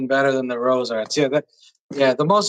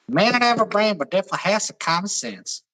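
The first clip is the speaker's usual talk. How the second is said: put-on Alabama accent; 4 semitones higher than usual. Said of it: "the Alabama one".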